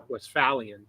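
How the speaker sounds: "Westphalian" with a short A, west-FAL-ian; American pronunciation. Retold or imitated. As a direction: say "Westphalian" with the vowel of "pal". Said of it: "they were pronouncing it".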